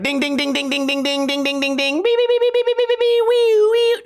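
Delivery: rapid high chanted dings climbing into shrieking beeps and sirens; imitated slot-machine jackpot. Mocking movie slot machines, imitated jackpot alarm. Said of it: "movies where it's like".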